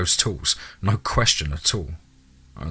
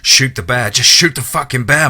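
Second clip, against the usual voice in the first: loud, higher, frantic self-urging; manic frenzy; 5 semitones higher, 7 dB louder than usual. A narrator's reading. Hunter urges himself to shoot, in a manic frenzy. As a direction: whip yourself into a mounting frenzy. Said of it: "My internal dialogue was a manic frenzy".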